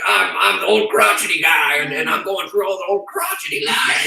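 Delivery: lightly voiced crotchety old man; a hint of a grumpy old-timer; old crotchety guy. Shown as a demonstration. Author showing bad character voices to friends, lightly hammed-up crotchety old guy. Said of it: "That one sounds good on you. Old crotchety".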